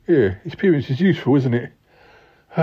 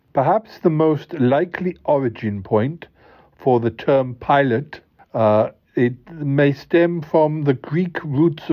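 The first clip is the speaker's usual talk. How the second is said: reading aloud. Acted. Co-host explains the origin of pilot episodes, reading aloud. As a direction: read it out carefully, with pauses. Reads out researched definition.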